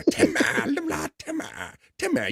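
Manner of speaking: high strained Timmy yell. Retold or imitated. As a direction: squeal it like Timmy. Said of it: "trying to get me to do Timmy".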